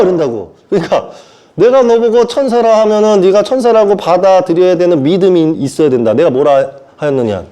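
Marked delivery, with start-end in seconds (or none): none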